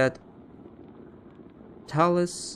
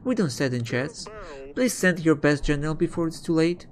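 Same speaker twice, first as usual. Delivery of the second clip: raised, pleading peasant voice; 5 semitones higher than usual. Acted. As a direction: beg the king for help, pitched up. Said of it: "A peasant".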